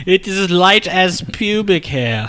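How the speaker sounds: slow, high hammed-up ad read; mock ad voice. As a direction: drawl it like a beer commercial. Mock beer ad slogan.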